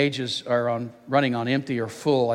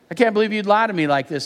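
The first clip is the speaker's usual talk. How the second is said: raised-pitch parental reproach; scolding; 5 semitones higher than usual. Acted. Dad scolding daughter for lying, mock indignant scolding. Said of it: "I scolded".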